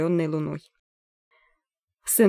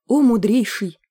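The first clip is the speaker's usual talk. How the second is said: pompous exclamation; 4 semitones higher, 5 dB louder than usual. A narrator's reading. Pompous chronicler's address.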